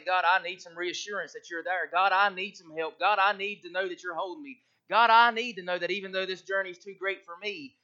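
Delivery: loud, earnest pleading to God; pleading prayer. Acted. Worshipper crying out to God for reassurance, loud. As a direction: beg God for help with full voice. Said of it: "come talk to God and say".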